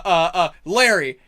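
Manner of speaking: loud, casting about for a name; mock casting call. They need a voice for a character, loud improvised summons. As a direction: call out the first name you think of.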